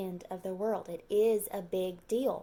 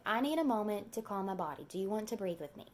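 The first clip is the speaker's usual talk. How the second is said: calm teacher voice. Shown as a demonstration. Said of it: "I tell my kids".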